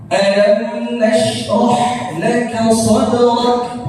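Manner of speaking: slow chanted tajwid recitation; slow, measured Quranic chant. Shown as a demonstration. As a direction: recite slowly and carefully like a teacher modelling.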